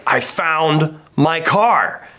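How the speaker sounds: drawn-out, mildly exuberant retelling; exuberant announcement. Retold or imitated. Friend calling back with good news, slow mock exuberance. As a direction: stretch it out as mock triumph. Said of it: "he's exuberant that he's found this thing".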